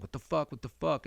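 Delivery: high, startled "What the fuck?" cried out; shocked outcry. Retold or imitated. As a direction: yell it in disbelief. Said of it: "I was like".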